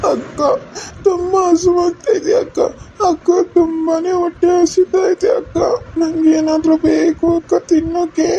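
put-on whimpering hungry little boy; crying child. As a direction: tearfully tell sister you're starving. Hungry little brother crying to sister. (ಹಸಿವಿನಿಂದ ಅಳುವ ಮಗು)

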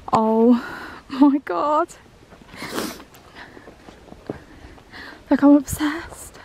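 breathless, amazed gasp at the view; awed delight. Real, not acted. Admiring beautiful frozen woods.

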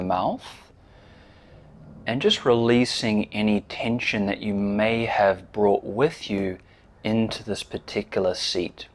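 measured guiding voice with long pauses; unhurried meditation instruction, leaving space after each phrase; guided meditation. Real, not acted. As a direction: lead them gently into stillness, pausing between phrases.

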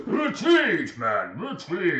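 high, loud shouted order; shouting retreat. Acted. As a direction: yell it to the troops. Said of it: "They say".

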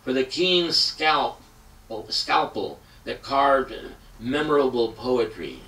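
emphatic poem recital with long dramatic pauses; impassioned reading of a tribute poem; poetry reading. Acted. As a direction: read it like a poet performing for an audience. Reads poem aloud after intro.

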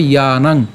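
"ইয়ানাং" as i-ya-nang, ending nasalised; pronunciation demo. Shown as a demonstration. Teacher shows the second half, isolated "ইয়ানাং". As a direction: say "ইয়ানাং" alone, long a, closing on ng. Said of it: "তখন তার উচ্চারণটা কেমন হবে".

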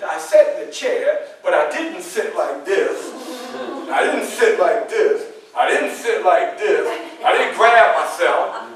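lightly mocking a slouching student; demonstrating rude sitting. Shown as a demonstration. Teacher showing students how not to sit, mockingly. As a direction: act out sitting badly, with a laugh. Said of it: "Instead of sitting like this".

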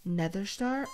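talking with mouth full. Real, not acted. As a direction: speak around a mouthful. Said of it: "do you have something in your mouth".

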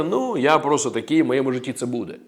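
mock resignation, dropping away at the end; resigned acceptance. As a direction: shrug it off quietly, as if nothing can change. Voicing a believer who gives up.

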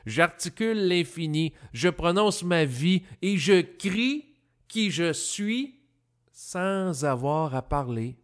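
measured poem reading with deliberate pauses; lilting, declaimed verse; poetry recital. Acted. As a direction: recite it line by line, letting the rhymes land. Recites own poem aloud.

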